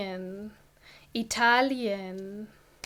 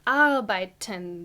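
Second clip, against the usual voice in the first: "arbeiten" stressed on its opening A; stress on the first syllable; 3 semitones lower than usual. Shown as a demonstration. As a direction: lean on the "ar" in "arbeiten". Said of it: "The emphasis is on the A".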